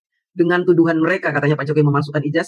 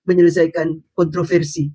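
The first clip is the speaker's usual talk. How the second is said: mock tough; 2 semitones lower than usual. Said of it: "Sekarang sok tegar bilang".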